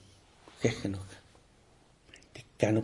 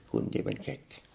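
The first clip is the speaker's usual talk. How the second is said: muttered dismissal; 3 semitones higher, 3 dB quieter than usual. Retold or imitated. Student dismisses teacher.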